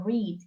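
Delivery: "read" with a long ee, like "reed"; present-tense pronunciation. Shown as a demonstration. Teacher introducing the verb to students, present-tense pronunciation. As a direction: say "read" to rhyme with need. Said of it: "se pronuncia read, como el color".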